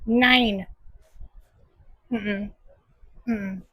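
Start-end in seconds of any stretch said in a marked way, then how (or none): 0.0-0.6 Nein said as German "nine". Shown as a demonstration. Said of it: "Let me say it in German".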